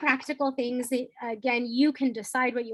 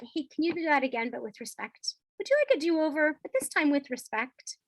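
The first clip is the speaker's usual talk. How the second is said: calm redo offer; 4 semitones higher than usual. Shown as a demonstration. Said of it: "I'm using the phrase like".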